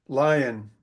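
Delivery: LION with a long I, as in "eye". Shown as a demonstration. Teacher showing a long vowel, LION said with long I. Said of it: "You've got a long vowel there".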